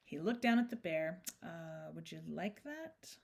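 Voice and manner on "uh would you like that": hesitant. A narrator's reading. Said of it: "he added hastily".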